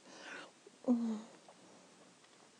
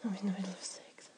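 whisper; 6 semitones lower, 10 dB quieter, faster than usual. Acted. Whispered protest.

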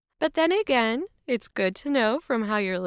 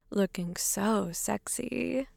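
whisper; 6 dB quieter, slower than usual. Acted. Seductive vampire costume.

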